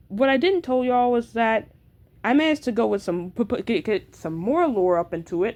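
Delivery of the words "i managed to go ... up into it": stumbling over the words; stuttering, restarting words. Real, not acted. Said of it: "I'm sorry that I'm stuttering".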